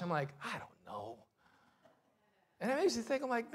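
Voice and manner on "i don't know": low, very soft mumbled answer; retold quiet grumble; sheepish reply. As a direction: answer small and subdued, like a scolded grouch. Sheepish reply to wife's scolding.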